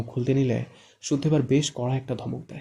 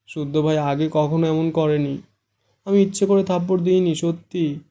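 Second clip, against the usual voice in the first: tearful; 4 semitones higher, 4 dB louder than usual. A narrator's reading. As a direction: plead through tears. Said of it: "কান্নামাখা গলায় বলে".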